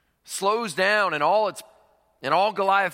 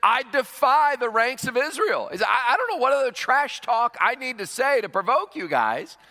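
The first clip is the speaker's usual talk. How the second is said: Goliath defiance; 5 semitones higher than usual. Retold or imitated. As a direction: taunt them with swagger. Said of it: "The Philistine said".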